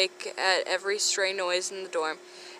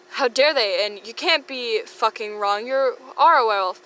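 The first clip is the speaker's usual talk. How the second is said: Sirius shouting; 2 semitones higher, 4 dB louder than usual. Acted. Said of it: "Sirius gets amusingly loud".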